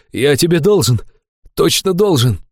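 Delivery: high, fervent insistence; overjoyed gratitude. A narrator's reading. Fat man to his healer, fervently grateful. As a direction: insist on the debt with emotion.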